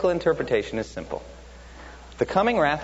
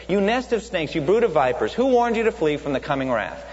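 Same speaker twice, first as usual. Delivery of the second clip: stern rebuke; 4 semitones higher than usual. Acted. John denouncing Pharisees.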